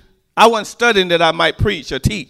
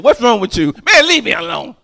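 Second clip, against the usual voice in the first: mock tearful; 4 semitones higher, 4 dB louder than usual. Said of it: "you be crying by yourself".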